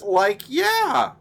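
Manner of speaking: high, slack stoner drawl; a laid-back cartoon slacker agreeing; Shaggy impression, high and loose. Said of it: "And Shaggy says".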